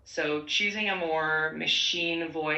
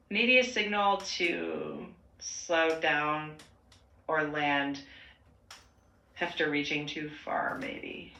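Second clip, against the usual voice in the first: gravelly, just-woke-up voice; growly morning voice. Real, not acted. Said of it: "you've got that growly morning voice going on".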